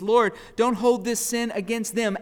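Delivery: high, loud plea to the Lord; cries out loud. Acted. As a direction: cry out while being stoned. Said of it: "he cries out with a loud voice".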